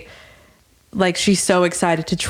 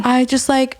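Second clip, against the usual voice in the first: higher-pitched imitation of tearfulness; mock crying; 4 semitones higher than usual. Contestant left off the board, mock crying. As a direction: pretend to cry, pitching it up. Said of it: "she's crying".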